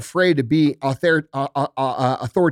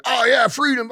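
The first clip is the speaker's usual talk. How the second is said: mock patriot cheer; 7 semitones higher than usual. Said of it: "The people who are fucking".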